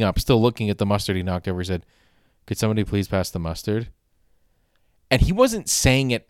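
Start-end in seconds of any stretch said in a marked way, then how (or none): 2.5-3.9 flat deadpan request, no inflection; monotone. Retold or imitated. Dad asking family at dinner, deadpan monotone. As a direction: ask for the mustard dead flat. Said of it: "completely monotone".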